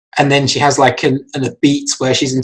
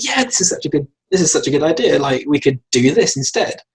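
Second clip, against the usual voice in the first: enthusiastic. Retold or imitated. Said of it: "she's quite, like, enthusiastic".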